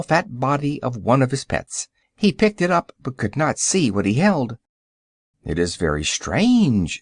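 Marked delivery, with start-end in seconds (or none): 5.4-7.0 low, slow and serious; sober. A narrator's reading. Wizard puzzling over the invisible piglets, lower and sober. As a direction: say it gravely, slowly. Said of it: "said he soberly".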